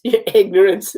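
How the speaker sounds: laughing while repeating the line; amused repeat. Real, not acted. Reader tickled by the script's line, laughing. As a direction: echo it through a laugh.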